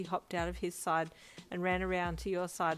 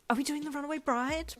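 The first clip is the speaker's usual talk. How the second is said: much higher, louder gasping question; shocked gasp; 9 semitones higher, 4 dB louder than usual. Acted. Brian thinking the bride will flee, shocked gasp. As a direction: gasp it in mock horror. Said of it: "Brian gasped".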